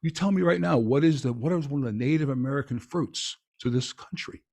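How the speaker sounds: hammed-up bold challenge; challenging pitch. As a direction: put him on the spot like a quiz host. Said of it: "And then I said".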